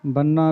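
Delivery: ਬੰਨਾ with a heavier, doubled n. Shown as a demonstration. Teacher shows students a heavier ਬੰਨਾ. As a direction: lean weight onto the nn of ਬੰਨਾ. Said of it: "ਥੋੜ੍ਹਾ ਜਿਹਾ ਭਾਰਾ ਬੋਲਣਾ ਹੈ".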